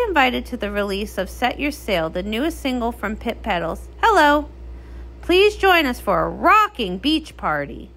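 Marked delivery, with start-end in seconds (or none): 4.0-7.9 excited hello. Acted. Cheery invitation greeting.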